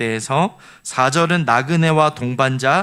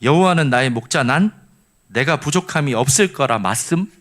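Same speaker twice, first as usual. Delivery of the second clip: Jeju dialect. Shown as a demonstration. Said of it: "제주도 버전은".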